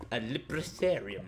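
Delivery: slow mock-posh pronunciation. Gamer naming the library he wants, mock posh. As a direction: draw it out in a put-on posh way. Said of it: "Posh way of saying librarium".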